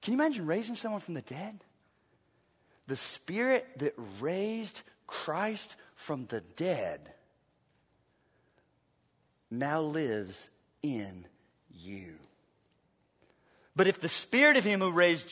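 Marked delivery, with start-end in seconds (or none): 2.9-12.1 much softer, slow and low; hushed. Real, not acted. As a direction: drop to a reverent hush, slowly. Sermon climax, hushed emphasis.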